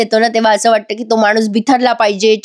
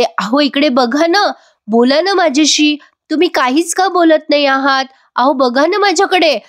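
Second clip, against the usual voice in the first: a retold wife coaxing her husband, a little higher; pleading wife; 4 semitones higher than usual. पतीला उठवण्यासाठी आर्जवी, उंच आवाज. Sayali begs sleeping Arjun to answer.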